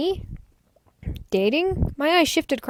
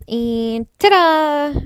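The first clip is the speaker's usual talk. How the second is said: slow, breathy whispered ta-da; a hushed slow surprise reveal; 4 semitones higher, 5 dB louder, much slower than usual. Acted. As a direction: whisper the big reveal, drawn out. Character reveals surprise pillow fort.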